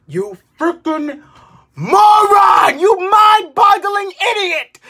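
high, loud insult yelled; yelling at the indecisive moviegoers; furious shout. Real, not acted. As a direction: blast the insults at them.

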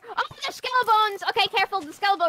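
high, urgent warning; alarmed warning. Acted. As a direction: sound the alarm, playfully. Warning of skeletons.

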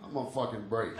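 low, gruff union guy on break; surly union worker. Retold or imitated. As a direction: grumble it like a lazy union worker. Union guy voiced, lower.

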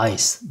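"ice" said AYS; German ay diphthong in "ice". Shown as a demonstration. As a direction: model "ice" with ay and a hissed s. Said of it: "i'ye ay diyoruz".

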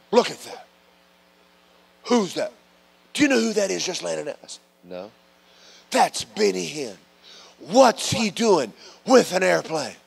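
high, fast gossipy voice; mock nosy instructor. Preacher imitates the flight instructor gawking at Benny Hinn, high gossipy voice. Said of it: "the conversation went like this".

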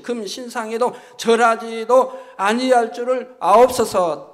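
loud, resolute recitation of a vow before a king; emphatic pulpit declaration; scripture declamation. Acted. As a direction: declaim it firmly, leaning hard on each phrase.

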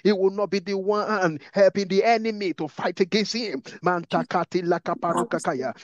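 insistent, driving prayer with repeated pleas; impassioned prayer leader; fervent prayer. Real, not acted. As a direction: pray urgently, phrase after phrase. Leads fervent prayer in tongues and English.

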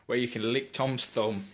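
loud, showy ad-announcer read; mock advert. Friend plugs a fake theatre fundraiser, loud ad voice. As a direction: sell the fundraiser like a cheesy ad.

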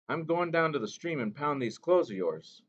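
put-on a gentle old mother reminding the boy; Mo Mo Bay. A narrator's reading.

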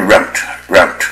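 "route" said to rhyme with "out"; the regional American "route" with an ow vowel, repeated. Shown as a demonstration. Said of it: "有的人就念成".

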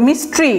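মিস্ট্রি in two syllables, "mis-tri"; correct pronunciation. Shown as a demonstration. Teacher models the noun, মিস্ট্রি with no vowel between t and r. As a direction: run t and r together in মিস্ট্রি. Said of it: "মিস্টেরি বলবেন না আবার".

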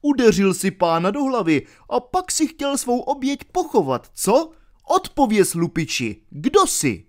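jeering friar questioning the murderer; taunting friar. Acted. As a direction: poke fun at the robber. Friar interrogates the villain.

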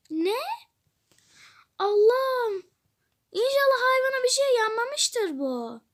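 high, urgent panic; high-pitched cries to run; panicked alarm. Acted. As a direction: rush in a frightened panic. Panic, forgot the cat.

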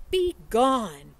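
loud, high shout to scare off the bear; screamed. Acted. Librarian yells at the bear as she throws the book, screaming. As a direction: hurl it at the bear like a battle cry. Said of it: "and screamed".

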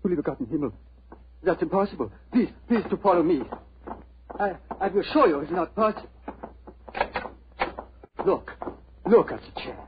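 flustered German shopkeeper protesting; alarmed German dealer. Acted. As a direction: rush to prove it's impossible, in German accent. Dealer alarmed about second chair.

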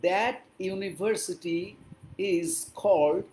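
very slow, spaced-out English; slow model reading. Shown as a demonstration. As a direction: dictate it word by word. Teacher models English slowly for learners. (ধীরে ধীরে, থেমে থেমে ইংরেজি)

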